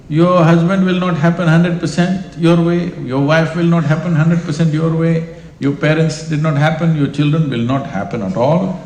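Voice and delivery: loud teasing list. Real, not acted. Punchline list to audience.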